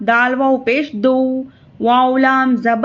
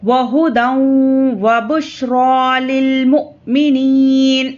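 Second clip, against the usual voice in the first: Quran recitation. Acted. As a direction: chant the verse in measured tarteel. Chants the verse in recitation.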